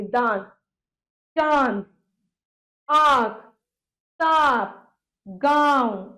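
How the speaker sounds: दांत, चांद, आंख, सांप, गांव with long vowels through nose and mouth; nasalised vowels. Shown as a demonstration. Teacher giving examples of nose-and-mouth sounds, nasalised vowels. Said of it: "मुंह से भी और नाक से भी हवा निकलेगी".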